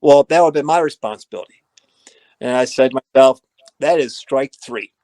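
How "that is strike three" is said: slowed right down, a heavy grim verdict. Retold or imitated. To himself after the turf disaster, slow and grim. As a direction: spell out each word of the third strike. Telling himself strike three.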